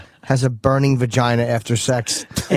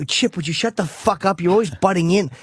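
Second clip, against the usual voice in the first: mock irritation in a raised pitch; annoyed girlfriend; 6 semitones higher than usual. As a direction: imitate a partner fed up with an interruption. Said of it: "how annoyed she would get".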